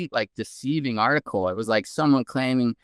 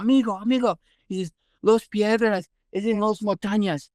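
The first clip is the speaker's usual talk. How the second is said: mock yelling old man; 6 semitones higher than usual. Old man with a cane calling after the visitor, mock yell. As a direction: holler it after someone leaving the shop. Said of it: "comes out yelling from two blocks down".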